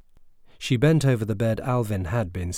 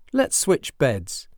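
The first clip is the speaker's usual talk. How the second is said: slow, deliberate challenge; 6 semitones higher, 4 dB louder, much slower than usual. Acted.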